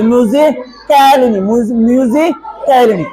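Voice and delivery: "कालिनी" with the A fully voiced; wrong pronunciation. Shown as a demonstration. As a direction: pronounce the silent vowel in "कालिनी". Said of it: "ऐसे नहीं". ("कालिनी" में ए की आवाज निकालकर)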